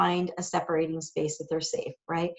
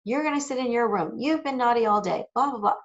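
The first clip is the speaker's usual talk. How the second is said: raised pitch, a mild nagging parent lecture; mock scolding lecture; 4 semitones higher than usual. Mom showing the lecture she won't give, mild mock nag. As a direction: lightly ham up the scolding you shouldn't give. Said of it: "give the whole lecture".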